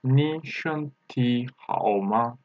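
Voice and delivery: syllable by syllable, slowly; slow pronunciation model. Shown as a demonstration. Teacher says the sentence again, slow and separated. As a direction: space out each word for learners. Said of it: "I am, uh, saying again".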